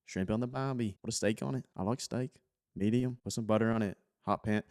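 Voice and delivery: playful mock Australian accent; casual, hammed-up Aussie twang. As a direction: lightly put on an Aussie accent. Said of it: "that nice little Australian accent".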